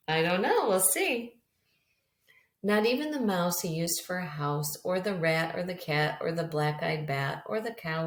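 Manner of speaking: gentle storybook read-aloud; reading to children. Acted. Teacher reading a picture book to her class, gentle storytelling. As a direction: read it to a class of little kids.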